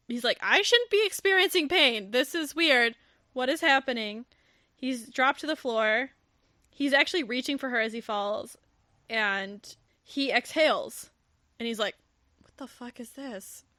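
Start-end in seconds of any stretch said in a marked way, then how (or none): 0.4-4.3 lightly acted bewilderment, pitched up; alarmed. Matthew feels sudden chest pain. 12.4-13.6 much softer, airless gasp of a line; breathless. Retold or imitated. Matthew collapsing on the floor, barely voiced and breathless.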